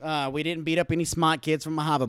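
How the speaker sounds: put-on Boston accent. Shown as a demonstration. Recounting the Boston trip to friends, put-on Boston accent. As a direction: answer in mock Boston, dropping the R's. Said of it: "kill it with Boston".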